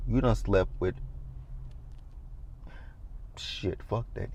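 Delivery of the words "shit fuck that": soft, nearly whispered aside; quiet self-correction under her breath; under-breath mutter. Real, not acted. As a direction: mutter it to yourself.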